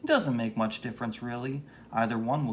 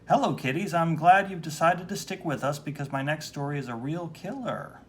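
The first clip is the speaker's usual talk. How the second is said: horror host; 4 semitones higher than usual. Acted.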